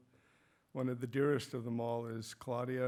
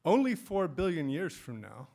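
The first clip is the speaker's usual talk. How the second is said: raised, declarative read-out; quoted sentence; 4 semitones higher, 6 dB louder than usual. Retold or imitated. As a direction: read the sentence out clearly, louder. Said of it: "coming across this sentence".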